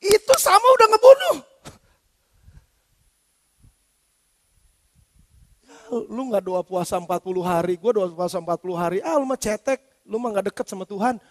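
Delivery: a lightly voiced smug believer sneering; smug put-down. Pastor imitating a smug churchgoer belittling another, mild sneer. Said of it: "dengan bilang gini".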